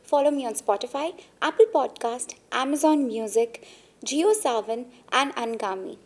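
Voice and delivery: bright channel intro read with a plug list; podcast host intro. Acted. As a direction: welcome listeners like a show host. Host opens the podcast episode.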